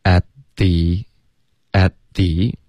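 "At the" said slowly with the t of "At" left out; careful "at the", t unreleased before "the"; dropped t. Shown as a demonstration. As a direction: hold back the t in "at the". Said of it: "at的特会省略".

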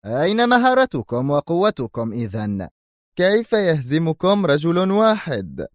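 furious boss; angry rebuke. Acted. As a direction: berate them. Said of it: "مستطردا في غضب".

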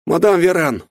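shouting servant bursting in; excited call. A narrator's reading. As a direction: burst in calling out. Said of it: "влетел в комнату Жерар". (возбуждённый возглас слуги)

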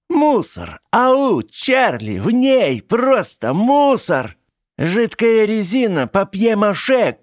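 high, slow shrieking triumph; triumphant shriek. Acted. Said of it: "торжествующе провизжала она".

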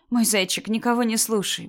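gentle, slightly lifted reassurance; soothing mother. Acted. Mother telling daughter to ignore it, soothing. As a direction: reassure a child tenderly.

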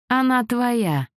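high, slow gloating offer; patronizing villain. A narrator's reading. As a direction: hand her over with smug pleasure. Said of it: "покровительственно сказал Фальконе".

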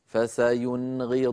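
slowly recited "فسينغضون", short noon straight into ghayn, long final oo; clear izhar. Shown as a demonstration. Teacher showing noon before ghayn, "فسينغضون" in slow clear izhar. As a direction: chant "فسينغضون" without lengthening the first noon. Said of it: "لا زيادة في زمن النون".

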